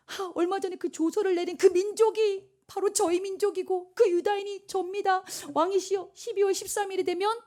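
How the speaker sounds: high-pitched, dramatic formal appeal; pleading queen. Acted. Esther tells the king she must die, acted plea. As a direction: reveal your peril to the throne.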